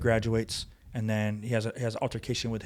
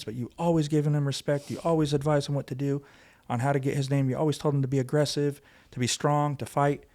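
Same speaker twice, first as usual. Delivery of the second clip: higher-pitched, pleading retelling of grief; retold distraught mother; 4 semitones higher than usual. Mother telling officer her son spoke of him, retold distress. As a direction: mildly imitate a mother crying out, voice raised in pitch. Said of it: "they start screaming, like, crying, going crazy".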